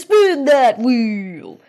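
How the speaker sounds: very slow, loud drawn-out quiz host call; over-the-top TV announcer chant; booming game show finale. Acted. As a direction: land it like the big reveal on a game show. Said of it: "we just keep saying".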